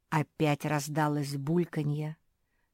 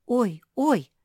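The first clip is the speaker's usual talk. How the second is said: higher, louder startled ouch; frightened cry; 7 semitones higher, 7 dB louder than usual. A narrator's reading. Josie gets hit on the forehead, frightened yelp. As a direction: yelp as if struck. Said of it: "испугалась Жози".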